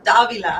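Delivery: DAVILA with the A stressed; accented A. Shown as a demonstration. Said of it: "put the accent in the A".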